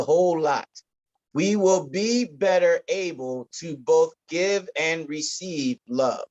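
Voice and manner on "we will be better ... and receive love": slowed down, each word placed with care; careful slow retry. Shown as a demonstration. Pastor retrying a tangled sentence, slow and careful. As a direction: take the tongue twister again, slowly. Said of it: "Wow, that was a tongue".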